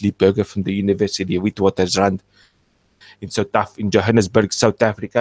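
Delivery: a light, quick South African accent. Shown as a demonstration. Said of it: "And I can do my South African accent if I say this".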